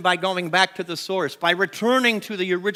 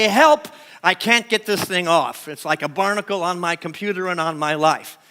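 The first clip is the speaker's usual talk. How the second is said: mock plea for help. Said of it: "Call Wes on the phone and say".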